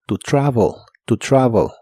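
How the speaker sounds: "To travel" with the e almost o; "travel" said like travol; model phrase. Shown as a demonstration. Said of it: "suena casi como O".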